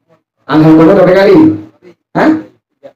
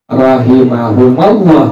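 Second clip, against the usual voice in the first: slow drawn-out recitation; 2 semitones lower, slower than usual. Shown as a demonstration. Preacher slowly reciting the prayer phrase for students. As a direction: draw out Rahimahumallah slowly, syllable by syllable. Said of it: "Kita ente bilang apa?".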